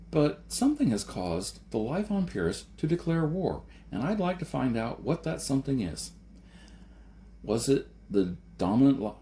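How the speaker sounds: earnest debater growing impassioned; Jason, rising to heated pleading. A narrator's reading. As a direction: press the argument harder and harder. Narrator voices Jason.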